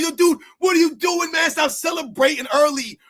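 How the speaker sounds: loud, fed-up shout at a player celebrating early; sports fan yelling at the TV; retold yell at the TV. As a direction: holler at the screen like a frustrated fan.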